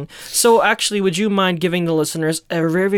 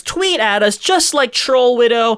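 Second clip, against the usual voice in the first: mock announcer appeal; 4 semitones higher than usual. Asking listeners to write in, mock announcer appeal. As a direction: announce it grandly, stretching the ending.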